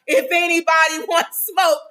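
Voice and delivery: lightly acted yelling up at neighbors; mock yell. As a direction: call out a fight challenge, half-strength. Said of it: "in the apartment complex yelling up".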